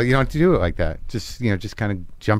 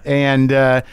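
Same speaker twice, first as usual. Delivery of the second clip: upbeat morning DJ, pitched up; radio host voice; 4 semitones higher than usual. Pretend. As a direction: play the chirpy radio host. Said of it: "I'm still in character".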